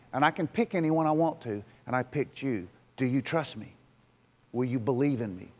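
quiet, low, tender appeal; gentle appeal. Acted. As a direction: ask softly for their trust. God gently asking for trust.

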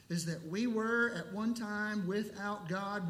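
were leaned on with a falling tune; stress on were. Shown as a demonstration. Preacher to congregation, were stressed and falling. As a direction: lean into the word were. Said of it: "the emphasis is on the word were".

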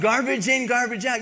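high, loud, preachy shout; preaching shout. Retold or imitated. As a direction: hammer the lesson home like a preacher. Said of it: "and I preached at 'em".

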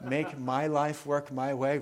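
slow, laughing through "life". Real, not acted. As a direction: say it with a laugh, lightly mocking. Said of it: "the speaker got to it first".

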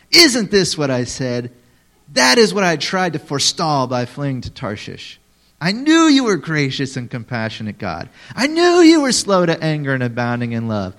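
hammed-up whiny prophet demanding death; overdramatic angry Jonah. Shown as a demonstration. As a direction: play the total drama queen. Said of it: "You have to read it like that".

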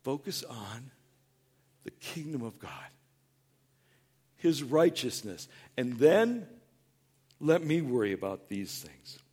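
a hint of God calling him back gently; gentle call of God. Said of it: "he goes".

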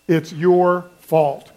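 a slow, light accusation; slow mock blame. Shown as a demonstration. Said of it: "just say this".

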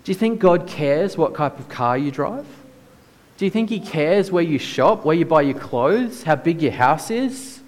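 incredulous. Real, not acted. Preacher asking the congregation what God cares about, incredulous. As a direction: pile up the questions in mild disbelief.

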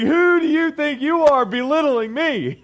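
high, loud mock outrage; indignant. Reacting to a lady who talked down to him, indignant. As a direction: play up being offended, pitch way up.

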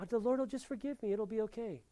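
mock careless believer. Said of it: "I know".

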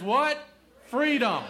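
high, loud call to the room; call and response. Acted. Preacher calling on the congregation to answer, loud and high. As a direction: throw the question out to the church.

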